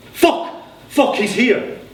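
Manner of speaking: high, loud startled yell; alarmed outburst. Acted. Johnny at the window seeing the suitor arrive, yelling high and loud in alarm. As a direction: blurt it out in sudden panic.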